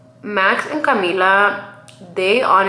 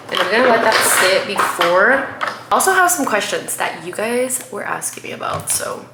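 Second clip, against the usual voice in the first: blocked nose voice; stuffy nose. Real, not acted. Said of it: "I don't know why I'm also stuffy".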